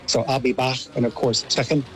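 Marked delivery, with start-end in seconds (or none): 0.2-0.8 Scouse accent demo. Shown as a demonstration. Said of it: "it becomes more like a sh". 1.5-1.8 American's Scouse, second with a fricative k; Scouse accent demo. Shown as a demonstration. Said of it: "it becomes more like a sh".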